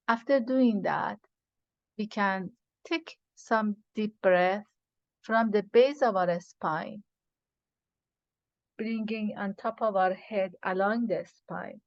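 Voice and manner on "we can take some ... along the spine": measured breathing instructions with long pauses; guided meditation. Acted. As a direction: guide them unhurriedly through each breath.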